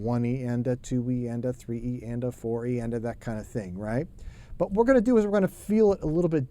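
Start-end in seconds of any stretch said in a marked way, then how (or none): 0.0-3.8 even, straight one E and a count; straight sixteenth count. Shown as a demonstration. Teacher counting straight sixteenths for students, evenly. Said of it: "if we just count them".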